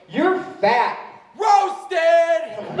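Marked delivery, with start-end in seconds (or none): 0.1-1.0 mocking kid. Imitating kid's insult. 1.4-2.6 put-on high, drawn-out kid's yell; top-of-lungs scream. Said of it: "scream "roasted" at the top of his lungs".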